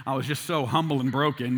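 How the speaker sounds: chuckling, mock-serious self-irony; laughing sarcasm. Real, not acted. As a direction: laugh through a tongue-in-cheek boast. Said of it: "No, I was like".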